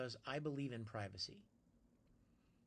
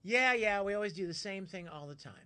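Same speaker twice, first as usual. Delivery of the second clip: bored viewer; 5 semitones higher, 8 dB louder than usual. Retold or imitated. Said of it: "a lot of you are even probably thinking".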